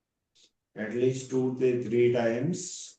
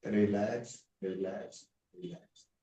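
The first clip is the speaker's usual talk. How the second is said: guided relaxation. Acted. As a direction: ease the class down limb by limb. Yoga teacher leads shavasana relaxation.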